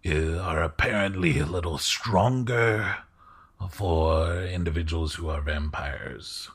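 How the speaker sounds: a polite lord, unhurried and confiding; courtly host voice. Acted. Host keeps speaking.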